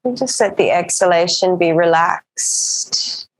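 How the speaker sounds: calm, even yoga-teacher voice with long pauses; settled meditation-class delivery; guided breathing practice. Acted. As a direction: guide them gently into the breath, unhurried.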